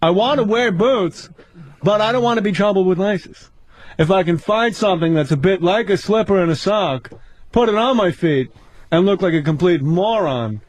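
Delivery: lightly imitated observational stand-up delivery; Jerry Seinfeld. Comic riffs on women's boots, light stand-up impression. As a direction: set up each phrase, pausing between them. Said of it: "Seinfeld, what's the deal".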